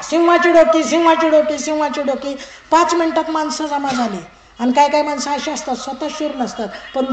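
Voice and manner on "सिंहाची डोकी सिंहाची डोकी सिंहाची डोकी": loud street-seller cry, fading out; hawker's call. Acted. Minister hawking heads in the market, loud cry. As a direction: call out the wares to the square. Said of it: "गेला".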